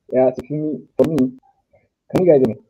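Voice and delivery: clipping, distorted mic audio; fuzz distortion. Real, not acted. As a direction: overdriven headset microphone. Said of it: "your audio is clipping a little bit".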